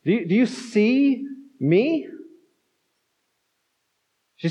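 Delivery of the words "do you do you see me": higher-pitched, halting plea without shouting; hurt cry out. Retold or imitated. Martha crying out to Jesus, mildly pleading. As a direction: imitate someone pleading to be noticed. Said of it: "here also cries out".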